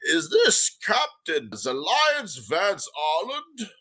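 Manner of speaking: put-on a prim old gnome merchant, unhurried. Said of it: "and he says".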